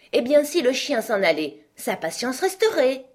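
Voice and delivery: high, emphatic queen making the point; exclaiming. A narrator's reading. Queen proves her answer to Alice, exclaiming. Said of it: "s'exclama la reine".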